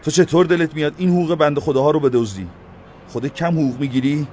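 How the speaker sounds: loud angry mayor; loud rebuke. A narrator's reading. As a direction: scold him out loud. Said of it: "با صدای بلند گفت".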